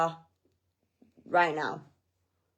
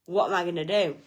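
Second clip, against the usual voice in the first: panicked; 4 semitones lower, faster than usual. Retold or imitated. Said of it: "and I'm panicking".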